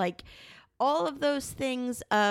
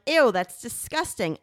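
disgusted onlookers; 6 dB louder than usual. Retold or imitated. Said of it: "people are like".

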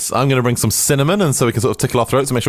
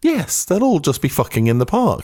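Churchill; 5 semitones higher than usual. Acted. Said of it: "an odd Churchillian response".

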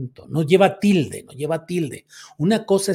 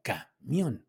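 "camión" as two parts, ca... MIÓN; softer repeat of "camión", syllables separated; split, stress on MIÓN; 6 dB quieter than usual. Shown as a demonstration. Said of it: "se pone tilde en la O".

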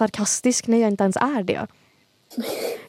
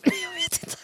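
giggling; 6 dB quieter, slower than usual. Real, not acted. Embarrassed giggle.

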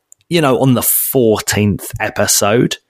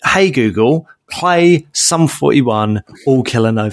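voice command. Shown as a demonstration.

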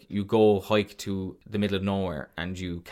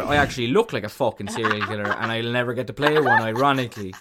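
laughing; 5 dB louder than usual. Real, not acted. Laughing at own looks.

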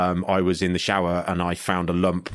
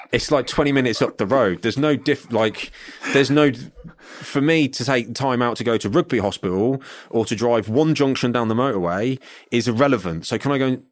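exasperated; 5 semitones higher than usual. Retold or imitated. Ranting about the hospital referral.

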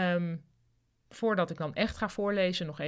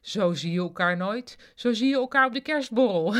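effusive call, building higher and louder; 4 semitones higher, 6 dB louder than usual. A narrator's reading. Marja runs into colleague Kavia, exclaiming loudly. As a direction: exclaim it with growing party cheer. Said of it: "riep Marja".

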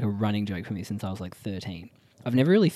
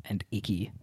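whispered aside; 9 dB quieter than usual. Real, not acted. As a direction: drop to a whisper. Sensitive topic lowered voice.

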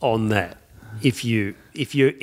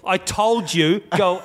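Guido voice; 5 semitones higher, slower than usual. Retold or imitated. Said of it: "in that fantastic voice he does".

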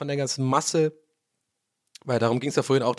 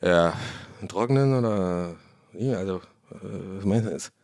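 snooty wine seller; 8 semitones lower, 3 dB quieter than usual. Retold or imitated. Shop clerk voiced in anecdote.

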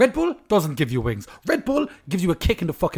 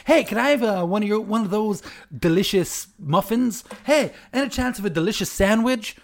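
mock American TV voice; 6 semitones higher than usual. Mocking Americans on TV who keep saying delicious. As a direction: parody a sitcom American. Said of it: "on T V shows".

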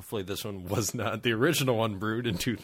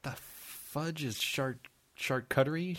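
mock French; 5 semitones higher, slower than usual. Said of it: "I made it sound French".

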